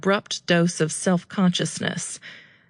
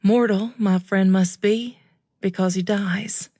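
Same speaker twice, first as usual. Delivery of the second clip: reciting poetry; 2 semitones higher than usual. A narrator's reading. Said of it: "recite the next line".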